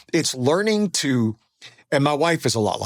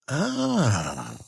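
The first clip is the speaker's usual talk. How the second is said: dawning realization; 5 dB quieter than usual. Retold or imitated. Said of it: "And I went".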